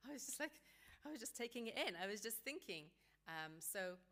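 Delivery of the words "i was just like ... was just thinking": defensive protest. Retold or imitated. Parent protests innocence, retold.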